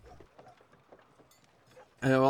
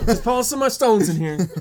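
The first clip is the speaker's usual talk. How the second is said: laughing; 11 semitones higher, 8 dB louder than usual. Pretend. Joking on caught gnome scene.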